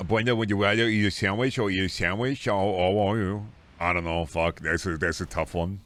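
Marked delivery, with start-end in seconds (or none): 0.1-3.5 a hint of robot voice, slowing down; lightly voiced machine reading; half-hearted synthesizer voice; odd synthetic read. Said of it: "I don't know why the fuck I read it that way".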